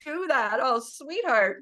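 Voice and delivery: slow, soothing words to herself; tender self-comfort. Shown as a demonstration. Comforting her own triggered feelings, slow and tender. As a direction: comfort the hurt part inside gently. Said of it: "this is how I talk to myself".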